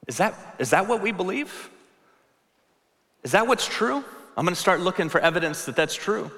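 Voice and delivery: a mind perking up at a new idea; curious inner voice. Retold or imitated. The listener's mind wondering, surprised and curious. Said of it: "your mind leans in and says".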